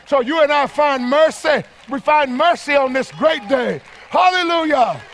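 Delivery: rising preacher's proclamation ending in praise; fervent preaching. Acted. Preacher proclaims mercy to the congregation, fervent preaching.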